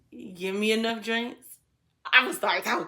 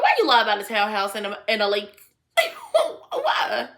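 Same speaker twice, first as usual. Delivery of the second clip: laughing disbelief. Retold or imitated. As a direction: crack up while mock-scolding a friend. Laughs retelling her complaint.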